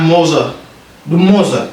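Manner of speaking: MOTHER mispronounced as "moza", O in the first syllable; wrong pronunciation. Shown as a demonstration. Teacher mimicking learners' mistake, mispronounced MOTHER. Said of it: "Am na ñoo xam ne dañ naan".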